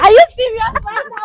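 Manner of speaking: shocked disbelief. Real, not acted. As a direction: blurt it out in real shock. Shocked reaction to prank reveal.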